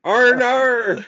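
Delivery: high, slow, loud Aussie call; drawn-out Australian R and R. Retold or imitated. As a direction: stretch R and R like an Aussie. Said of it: "I go".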